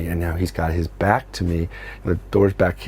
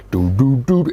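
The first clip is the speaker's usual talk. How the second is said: Matrix sound effect; 4 semitones higher, 4 dB louder, slower than usual. Retold or imitated. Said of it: "Neo Matrix impression".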